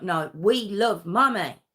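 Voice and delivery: lightly voiced small boy pushing back; child insisting. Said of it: "It's like".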